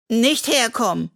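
Henry begging in a high little voice; small raccoon pleading high. A narrator's reading. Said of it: "bittet er".

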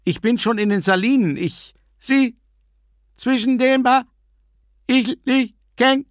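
high, loud shouting into phone; shouting on bad phone line. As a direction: shout over a crackling line. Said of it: "In der Leitung knackte es fürchterlich".

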